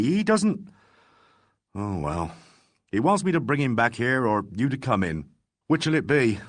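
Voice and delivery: acid. Acted. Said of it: "said Harper acidly".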